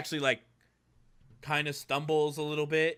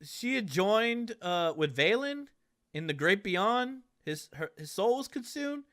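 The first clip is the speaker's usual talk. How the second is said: solemn report; 5 semitones higher, 5 dB quieter than usual. Acted. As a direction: break the sad news gently. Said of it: "He's like".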